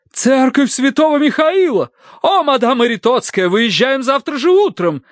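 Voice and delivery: high-pitched eager exclamation; fired up. A narrator's reading. Mrs. Mering decides to travel tomorrow, high excitement. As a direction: burst out with enthusiasm. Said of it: "загорелась миссис Меринг".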